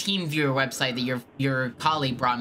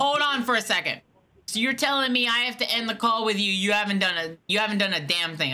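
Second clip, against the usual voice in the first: pitched up, fed-up protest at the scammer; exasperated complaint; 6 semitones higher than usual. Acted. Caller losing patience with the fake support agent, exasperated. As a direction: demand answers, voice climbing with irritation.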